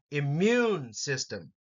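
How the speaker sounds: im-MUNE, second syllable hit; second syllable stress. Shown as a demonstration. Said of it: "have second syllable emphasis".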